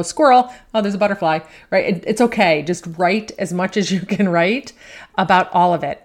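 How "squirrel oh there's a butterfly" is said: mock excited outburst, louder at first; distracted mind. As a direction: blurt it like a suddenly distracted mind. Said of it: "You might be writing and then, like, go".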